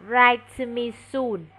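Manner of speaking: slow model reading. Shown as a demonstration. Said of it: "Chữ này mình đọc là soon ha".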